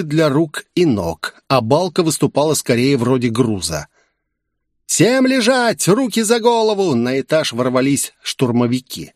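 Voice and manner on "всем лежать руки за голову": barked command. Acted. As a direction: order everyone down like a stormtrooper. Stormtroopers burst in. (высокий медленный приказ штурмовика)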